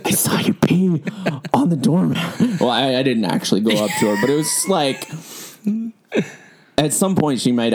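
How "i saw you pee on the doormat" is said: excited recognition. Retold or imitated. Telling a friend in the library about the peeing girl, excited. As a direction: burst out with the discovery.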